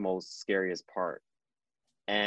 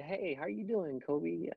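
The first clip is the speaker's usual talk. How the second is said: higher, softer imitated voice; gentle greeting; 6 semitones higher, 6 dB quieter than usual. Former student president checks on Kobe, gentle and high. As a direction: lightly voice a soft, high greeting.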